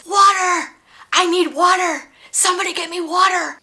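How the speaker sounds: a patient crying out for water; screaming for water. Retold or imitated. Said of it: "she kept screaming at the top of her lungs".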